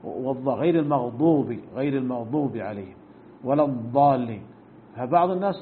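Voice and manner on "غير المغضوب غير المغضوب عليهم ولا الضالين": "المغضوب" and "الضالين" with ض between د and ظ; correct ḍād. Shown as a demonstration. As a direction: model the proper ض, neither د nor ظ. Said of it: "بين الدال والضاء".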